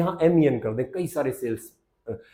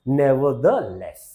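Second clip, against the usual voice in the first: very slow demo; 4 dB louder, much slower than usual. Shown as a demonstration. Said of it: "फिर भी को क्या बोल देते हैं".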